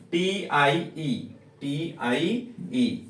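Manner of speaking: टीआईई spelled slowly, letter by letter; spelling out slowly. Shown as a demonstration. Teacher spelling टीआईई for students, slow. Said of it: "क्या पढ़ना होगा".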